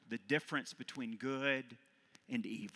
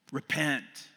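yelling; 2 semitones higher, 5 dB louder than usual. Acted. Prophet yelling straight at the listeners, firmer than shouting. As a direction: drive it home again, less booming. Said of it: "yelling at us".

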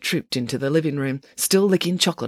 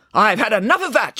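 mildly exasperated, voice raised a little; firm declaration; 5 semitones higher, 4 dB louder than usual. A narrator's reading. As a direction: declare you are fed up. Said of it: "she declared".

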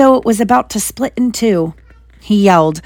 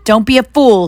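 put-on louder, higher snarl at the boy; snarled threat; 4 semitones higher, 5 dB louder than usual. The face snarls at Harry to join him. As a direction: spit it as a cold warning. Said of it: "snarled the face".

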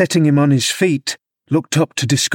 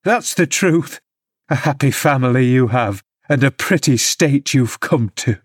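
indignant scolding; 3 semitones higher than usual. Acted. Nurse telling the father his son hates him, indignant. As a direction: lash out, then sneer. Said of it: "I continued".

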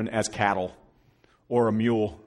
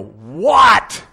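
loud, snapping What; irritated shout; 8 semitones higher, 17 dB louder than usual. Retold or imitated. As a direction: bark it out, fed up. Dad snaps at pestering son.

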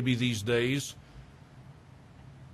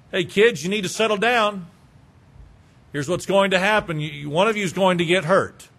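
put-on raised, firm parent telling kids to calm down; parent warning kids; 4 semitones higher, 4 dB louder than usual. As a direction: call out to rowdy kids, a bit higher and louder. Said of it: "You say something like this".

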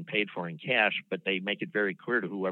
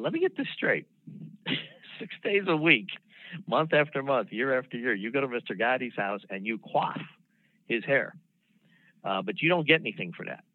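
higher and louder, retold disbelief; incredulous; 5 semitones higher, 3 dB louder than usual. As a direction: replay your own astonishment at the answer. Prosecutor grilling a reluctant witness.

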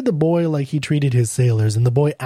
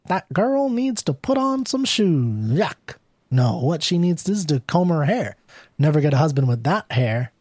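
disapproving busybody woman; 3 semitones higher than usual. Acted. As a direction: pick her apart in a higher voice. Disapproving woman in curlers comments.

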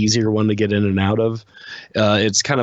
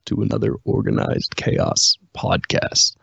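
slow, low movie trailer voice; dramatic announcer, dragged out to a whisper; 3 semitones lower, slower than usual. Pretend. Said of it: "I was trying out my trailer voice".

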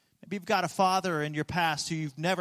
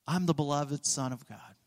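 quiet sincere declaration; 6 semitones lower, 5 dB quieter than usual. Shown as a demonstration. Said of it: "you can decide for yourself".

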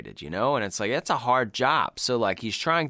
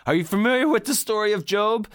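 loud, higher, acted irritation; pissed-off outburst; 10 semitones higher, 5 dB louder than usual. Man in the car asks about a Bible story, acted loud and pissed off. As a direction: put on a fed-up man raising his voice. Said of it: "Michael's just so pissed at that point".

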